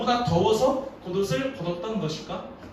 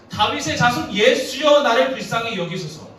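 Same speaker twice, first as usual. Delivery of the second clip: crying out; 4 semitones higher, 7 dB louder than usual. Acted. Blind beggar calling on Jesus, crying out.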